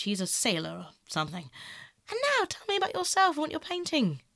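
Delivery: lightly voiced, chatty young aesthete; breezy social small talk with lively swoops in pitch; airy Dorian. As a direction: make light, lilting conversation.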